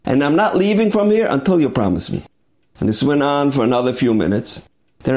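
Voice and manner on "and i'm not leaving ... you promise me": higher, urgent plea that will not back down; a retold husband's desperate insistence; insistent pleading. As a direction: beg him higher and harder, refusing to leave. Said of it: "He says".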